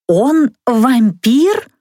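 slow wide-eyed disbelieving question; drawn-out shocked question; stunned. Acted. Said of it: "вытаращилась я на мага".

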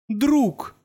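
a rusty voice cracking on one word; heartrending creak. A narrator's reading. Marvin creaking out the word to Arthur, anguished. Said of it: "душераздирающе проскрипел робот".

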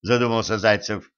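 plain reading voice

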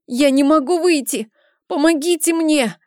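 on the edge of crying, begging; near tears. A narrator's reading. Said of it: "Гутхарм чуть не плакал".

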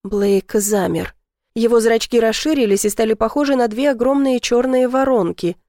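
ordinary delivery

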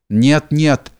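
plain reading voice

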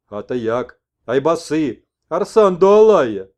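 rising to very loud, slow; shaman messenger. Acted. Messenger refuses to go home with the old man, loud. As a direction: cry out the names.

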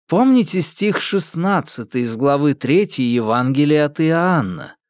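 fervent televangelist sermon; preaching. Acted. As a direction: preach it to the faithful with fire. Preacher signs off on TV. (проповедь телепроповедника)

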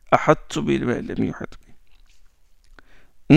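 slow, soft ahattu bima lam yuhit bi; slow demo. Shown as a demonstration. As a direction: stretch out each syllable gently. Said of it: "slow demo repetition".

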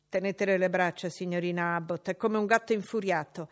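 loud, urgent call for help; urgent maid. Acted. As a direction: hold her down, quick. Bessie restraining.

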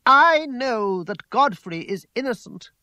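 slow, loud, high declaration; in a temper. A narrator's reading. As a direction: proclaim it with stamping insistence. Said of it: "in a peculiar temper".

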